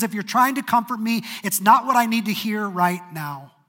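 fast, loud, impatient pushback; exasperated retort. Acted. Martha pushing back at Jesus's comfort, exasperated and fast. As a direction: brush off the platitude, frustrated.

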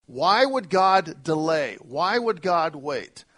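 slow, emphatic questioning of God; anguished questioning. Acted. Grieving believer questions God's delay, slow and insistent. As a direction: ask it slowly and insistently, leaning on each word. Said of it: "you're questioning".

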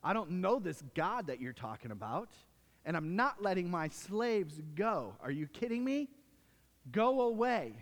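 mildly voiced arrogant Pharaoh; haughty Pharaoh. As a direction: sneer at Moses like a proud king. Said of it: "Pharaoh says".

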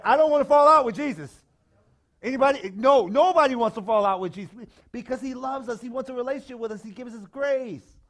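high, loud, fervent preaching; preacher getting worked up about Jesus, loud; fired up. Real, not acted. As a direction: let the fire rise in the voice. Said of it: "I'm getting kinda fired up".

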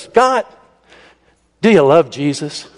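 a bright, beaming superintendent asking about faith; earnest preacherly question. Retold or imitated. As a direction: ask it like a beaming church elder. Superintendent asks about loving Jesus.

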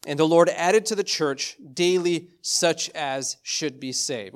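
slow, measured Bible reading; solemnly paced reading with weighty pauses; scripture reading. Real, not acted. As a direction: read the verse out deliberately, phrase by phrase. Reads scripture aloud.

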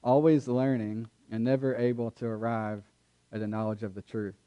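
measured, steady Bible reading; scripture reading. Acted. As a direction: read the passage with solemn care. Reads scripture aloud before sermon.

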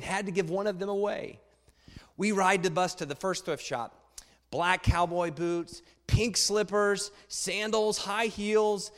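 put-on reading a children's book aloud to the congregation; story reading. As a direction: tell it like a picture book to a room.

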